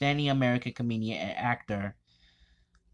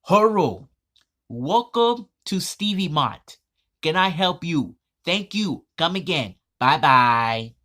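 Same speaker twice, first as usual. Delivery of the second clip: higher, louder shopkeeper impression; Apu; 4 semitones higher, 8 dB louder than usual. Cartoon shopkeeper greeting customers at Stevie Mott, in a put-on voice. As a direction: call out an exaggerated customer greeting.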